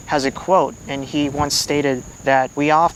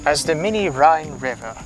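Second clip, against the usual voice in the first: documentary voice; 4 semitones higher than usual. Pretend. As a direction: narrate it like a nature documentary. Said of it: "should do your, uh, documentary voice".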